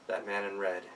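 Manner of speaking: plain reading voice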